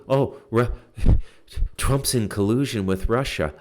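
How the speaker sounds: mock them in a snide put-on voice; scornful mimicry of his critics; mocking quote. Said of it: "You're, uh, you know".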